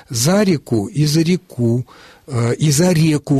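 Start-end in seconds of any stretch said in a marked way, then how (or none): 0.1-0.9 За реку as one word, beat on За; stress on the preposition За. Shown as a demonstration. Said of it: "можно и так". 1.1-1.9 за реку stressed on the final у; stress on last syllable of реку. Shown as a demonstration. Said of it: "можно и так". 2.5-3.4 за реку stressed on the е; stress on first syllable of реку. Shown as a demonstration. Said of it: "возможно".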